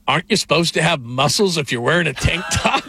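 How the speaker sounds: understated deadpan question; Warren Moon. Retold or imitated. Ex-quarterback needling a man in a tank top, deadpan. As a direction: ask it deadpan, in all seriousness. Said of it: "And Warren Moon deadpans".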